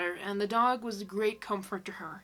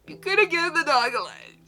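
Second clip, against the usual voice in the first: high voice; 5 semitones higher, 7 dB louder than usual. Acted. Joke line, two voices.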